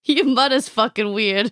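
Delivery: put-on slow Boston-accented jibe; mock Boston accent. Guest joining the your-mother riff, mock Boston accent. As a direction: draw it out with Boston vowels.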